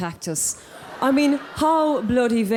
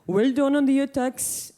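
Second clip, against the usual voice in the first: Osama impression; 3 semitones higher than usual. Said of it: "that's my impression of him".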